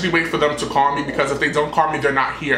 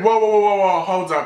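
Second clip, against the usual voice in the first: loud, higher whoa whoa hold up; retold alarmed stop; 5 semitones higher, 3 dB louder than usual. To the stranger climbing into his Uber, alarmed loud protest. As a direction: throw up a verbal stop sign in alarm.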